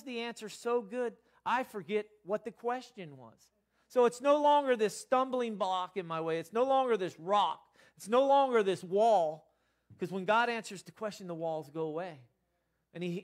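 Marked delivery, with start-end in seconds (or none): 3.9-9.5 each line louder, leaning hard on longer; swelling pulpit cry; rising preaching emphasis. Real, not acted. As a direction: build the repetition to a loud climax. Preacher building on repeated phrase.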